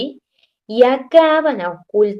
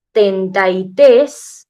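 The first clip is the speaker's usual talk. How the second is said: tenta y tres said slow and louder; louder thirty-three; 5 dB louder, much slower than usual. Shown as a demonstration. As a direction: push it out slowly and loudly. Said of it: "por eso lo pongo con letras mayúsculas".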